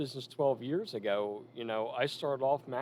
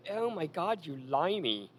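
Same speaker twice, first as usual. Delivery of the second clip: high-pitched mock heckle from the crowd; imitating the crowd's high jeer; jeering wrestling crowd; 7 semitones higher, slower than usual. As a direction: jeer at the heel like a rowdy fan. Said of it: "they're like".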